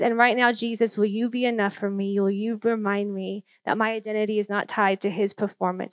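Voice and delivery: hushed, measured prayer, retold; earnest, subdued talking to the Lord. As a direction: confess it softly to God. Voices a prayer from memory.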